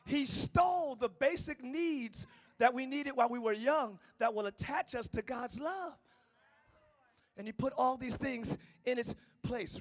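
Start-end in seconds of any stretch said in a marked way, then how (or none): 0.0-5.9 deliberate, unhurried restatement; slower. Shown as a demonstration. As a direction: say it a little slower. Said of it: "I'm gonna say that a little slower".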